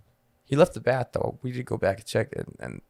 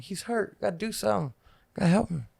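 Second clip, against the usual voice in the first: put-on urgent little kid; 7 semitones higher, 5 dB quieter than usual. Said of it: "You know, I'm a little kid".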